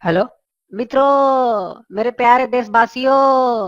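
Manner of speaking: drawn-out, very slow speech opening; national leader address. Acted. A leader addresses the nation on the phone, slow and grand. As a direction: stretch out मित्रों like a prime minister at a rally.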